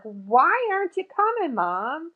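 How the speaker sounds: high plaintive call; pleading to mom. Retold or imitated. Daughter waiting for mom to visit, high pleading. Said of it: "I'm like".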